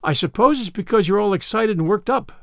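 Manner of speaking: mildly reproving elder; brisk, understated disapproval; disapproving. Acted. Marilla explains Anne's tears to her, disapproving. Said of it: "said Marilla disapprovingly".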